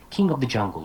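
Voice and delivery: "king of the jungle" linked without a gap; one chunk. Shown as a demonstration. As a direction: say "king of the jungle" as a single unit. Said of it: "That's a chunk right there".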